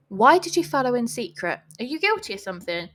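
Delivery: put-on English-accented accusation, climbing to high and loud. Man cuts girl off to accuse her, English accent. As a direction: build to a hammed-up English cry of accusation. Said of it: "I don't know why they're all English today".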